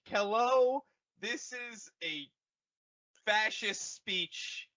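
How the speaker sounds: a high, lightly voiced fascist general; a hint of a pompous villain; mock Hux speech.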